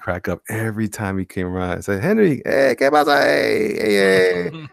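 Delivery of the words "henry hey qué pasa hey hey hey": higher, louder Spanish-accented imitation of a coworker; mock Spanish-accented greeting; imitating Henry.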